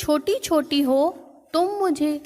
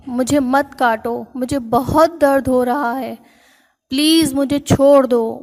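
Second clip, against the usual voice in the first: crying elephant's plea. Acted. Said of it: "زور زور سے رونے لگا".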